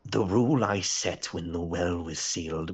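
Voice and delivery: lightly voiced slow queen; measured, formal confession; queen in a story. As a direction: draw out the queen's admission. Queen explains her rule.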